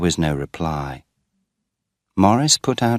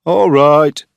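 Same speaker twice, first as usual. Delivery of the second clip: loud, high call across the field; father calling up from below, loudly; 9 semitones higher, 11 dB louder than usual. A narrator's reading. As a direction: shout it up to the stack.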